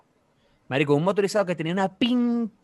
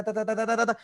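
higher-pitched "ta-ta-ta" of a swerving car; imitated fishtailing; 6 semitones higher than usual. Cousin swerves the car left, imitated fishtailing noise.

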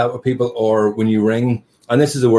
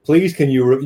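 robot voice; 4 semitones higher, 4 dB louder than usual. Retold or imitated. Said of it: "Stephen Hawkins type character".

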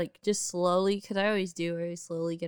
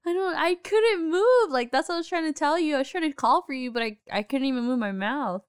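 high, loud retold plea, easing down toward the end; exasperated protest; 8 semitones higher, 5 dB louder than usual. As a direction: imitate pleading your case to dad. Retold daughter protesting to dad.

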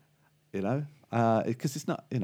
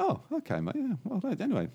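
higher, politely awkward barman; a higher, bemused landlord voice; 11 semitones higher, 3 dB quieter than usual. Acted. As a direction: play the barman unsure what to say. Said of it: "He's like".

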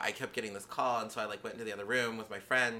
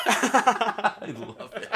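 laughing; 11 semitones higher, 7 dB louder, much slower than usual. Real, not acted. Laughing, drawn out.

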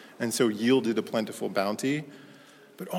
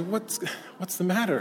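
gentle concern; 4 semitones higher, 8 dB quieter than usual. Retold or imitated. Adults gently check on crying boy.

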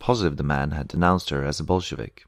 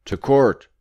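loud, high barked order; soldier's shout; 9 semitones higher, 7 dB louder than usual. A narrator's reading. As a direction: shout it out as a command. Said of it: "a soldier shouted in the room".

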